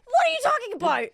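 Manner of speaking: high-pitched, exaggerated disbelief; mock incredulous. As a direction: throw it out in baffled, hammed-up protest. Acted baffled reply to the man.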